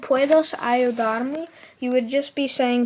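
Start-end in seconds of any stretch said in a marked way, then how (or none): 0.0-1.5 very slow, careful Spanish. Shown as a demonstration. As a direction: model it slowly. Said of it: "If you just said".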